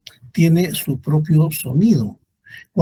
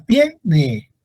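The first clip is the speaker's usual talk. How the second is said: TIE... ne, first syllable lifted; stress on TIE; 2 semitones higher than usual. Shown as a demonstration. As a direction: stretch and lift TIE in "tiene". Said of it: "tónica es tie".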